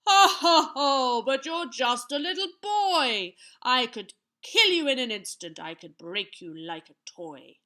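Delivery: huge, loud giant's guffaw into a taunt; roaring with laughter. A narrator's reading. Giant scoffs at a little boy, roaring with laughter. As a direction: boom the laugh, then mock loudly. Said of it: "The giant roared with laughter".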